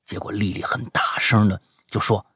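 animated, high-pitched storytelling, building suspense; dramatic story reading. Acted. Host reading a listener's scary night-chase story, dramatic and animated. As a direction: read the chase like a thriller.

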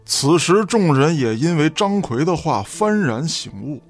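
ordinary delivery

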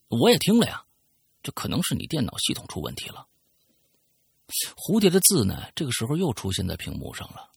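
reading a listener's letter aloud, storyteller style; story narration. Acted. Host reading a listener's letter on air, storytelling narration.

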